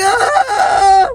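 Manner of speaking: high yelp of disgust; retold scream, hammed-up; mock shout. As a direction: yell like the diaper hit you. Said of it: "I was like".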